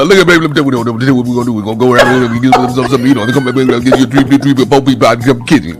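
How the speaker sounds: lightly voiced stammering Southern mumble; Southern boyfriend impression. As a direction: mumble and trip over words like the boyfriend. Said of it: "hard to hold that little character".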